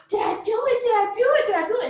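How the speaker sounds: high, excited retold amazement; disbelief. Mother asking staff after birth, acted high disbelief. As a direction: repeat it in high, incredulous wonder. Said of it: "I just couldn't believe it".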